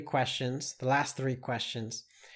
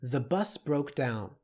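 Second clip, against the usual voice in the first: slow dictation; 4 dB quieter than usual. Shown as a demonstration. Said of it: "Taking away the beginning".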